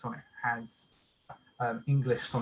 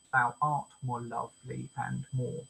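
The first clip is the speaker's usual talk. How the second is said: "lovely and more" with two light syllables before a stressed "more"; anapest stress. Shown as a demonstration. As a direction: run lightly through "-ly and" to land on "more". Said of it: "an anapest".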